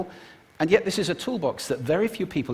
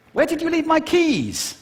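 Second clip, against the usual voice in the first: very high, louder, agitated question; high-pitched arousal; 6 dB louder than usual. Shown as a demonstration. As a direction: send the pitch soaring on the question. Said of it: "do it just with pitch".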